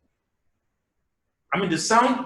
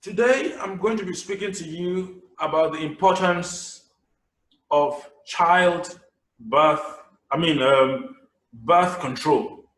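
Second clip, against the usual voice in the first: plodding, slow speech opening; dull public speaker; slower than usual. Shown as a demonstration. Speaker opening a talk, slow plodding delivery. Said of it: "you go like this".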